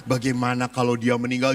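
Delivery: mock-solemn retreat leader tugging at hearts; solemn meditation leader. Leading children in a tearful reflection. (suara renungan yang rendah dan khidmat)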